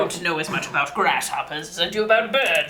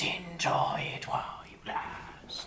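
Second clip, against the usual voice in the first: very quiet, strange, slow whispery voice; 12 dB quieter than usual. Repeating what a voice nobody else heard said, in a weird whispery voice. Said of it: "It's a weird, whispery voice".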